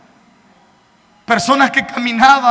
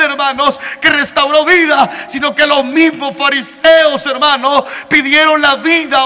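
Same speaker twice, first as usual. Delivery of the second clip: fervent preaching; 2 semitones higher than usual. Acted. Preacher to congregation about the Pharisees, fervent shouting.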